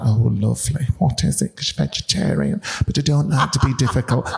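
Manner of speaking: lightly breathy Hull accent, imitating a fussy friend; a hint of a breathy Hull woman being polite; Marion's breathy Hull voice. Fussy friend from Hull accepting tea, lightly breathy Hull accent. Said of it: "Marion's from Hull and talks like that. Everything's very breathy".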